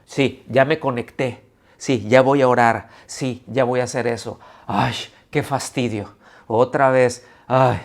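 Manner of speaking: mock sighing churchgoer, grudging; a reluctant believer, sighing at church again; grudging, fed-up attitude. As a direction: whine it like you'd rather not be there. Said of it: "la actitud con la que está diciendo".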